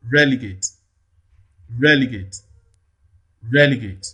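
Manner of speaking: Relegate with REL prominent, falling after; stress on first syllable. Shown as a demonstration. Teacher shows where stress falls, Relegate stressed on REL. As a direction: lean on the first syllable of Relegate each time. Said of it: "why the primary stress falls here".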